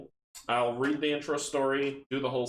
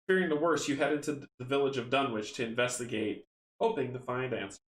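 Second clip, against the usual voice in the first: story narration. Acted. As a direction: read the tale out, letting sentence ends fall. Reads the intro story aloud.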